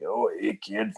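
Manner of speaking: hint of a sly old wrestler teasing a kid; imitating Stu. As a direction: tease the kid like a creepy old trainer. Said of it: "he'd be like".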